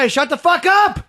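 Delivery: high, loud imitation of a yelling lunatic; full-volume yelling. Acting out the lunatic on the train, yelling at full volume. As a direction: yell it out like a raving train passenger. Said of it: "Fucking dude yelling at full volume".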